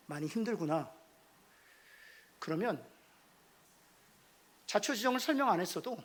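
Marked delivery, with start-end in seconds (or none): 0.1-0.9 soft, low, tender acknowledgement; gentle empathy. Acted. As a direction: understand the child quietly. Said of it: "책망하는 것이 아니라". (지친 자녀에게 조용하고 다정하게)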